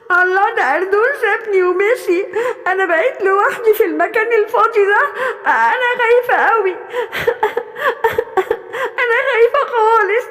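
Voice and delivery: teary, trembling little gazelle alone; a fawn left alone, starting to cry; frightened crying gazelle. Acted. أنا خايفة قوي.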